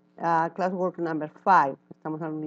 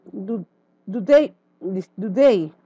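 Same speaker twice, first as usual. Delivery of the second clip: 1 emphatic question; 6 dB louder than usual. Real, not acted. Teacher asks class a question.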